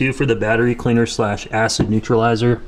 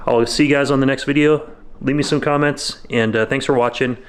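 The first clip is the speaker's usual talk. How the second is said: freezing cold. Real, not acted. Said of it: "Sorry, I'm kinda freezing".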